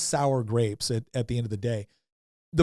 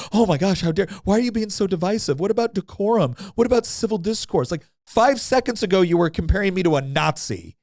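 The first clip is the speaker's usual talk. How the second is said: higher, whiny mock outrage at the other side; 3 semitones higher than usual. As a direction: imitate the pearl-clutching opponents, a touch hammed-up. Mocking the opponents' outrage.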